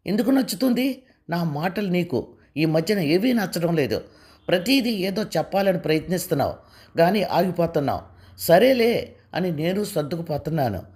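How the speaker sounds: a touch of anger in her complaint; mildly angry. Acted. Preethi complains to her husband, mildly angry. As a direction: complain with restrained irritation. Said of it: "అంతే కోపంగా ప్రీతి".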